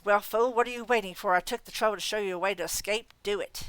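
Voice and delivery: imperious, impatient scold; a commanding godmother snapping orders; scolding fairy godmother. Acted. Leah scolding Harry.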